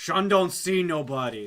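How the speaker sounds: very loud yelling shout. Voicing a bugbear guard answering the party at the door: bugbear guard yelling. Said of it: "one of them just yells out".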